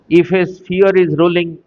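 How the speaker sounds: measured, unhurried question reading; slow dictation. Real, not acted. Teacher slowly dictating an exam question to students, slow dictation. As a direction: read out slowly, word by word. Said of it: "धीरे धीरे बोल रहा हूँ".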